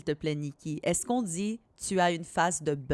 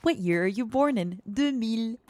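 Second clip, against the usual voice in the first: higher, imitated quiz-style question and reply; retold TikTok exchange; 5 semitones higher than usual. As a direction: act out a TikTok question and answer lightly. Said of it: "a TikTok which was like".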